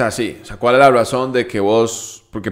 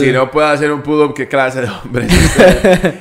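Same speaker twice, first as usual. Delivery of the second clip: laughing slow reel quote; 3 semitones higher than usual. Retold or imitated. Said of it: "Eso se volvió demasiado viral".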